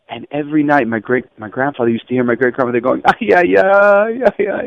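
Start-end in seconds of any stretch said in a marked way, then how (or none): 3.1-4.6 retold lament. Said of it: "and crying over the".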